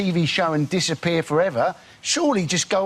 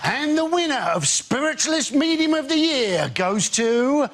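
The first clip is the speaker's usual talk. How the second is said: mock medium; 5 semitones higher, slower than usual. Spiritualist medium at awards.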